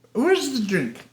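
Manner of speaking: high-pitched tipsy demand; Gladys Cooper, drunk. Retold or imitated. Drunk duchess sits down wanting her drink, tipsy. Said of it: "she's drunk through the whole movie".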